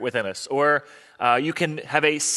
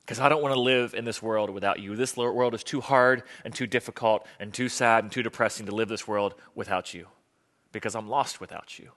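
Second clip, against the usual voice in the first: David's plea; 2 semitones lower than usual. Acted. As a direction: plead with God, letting the voice fall away. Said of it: "And all he wants, he says".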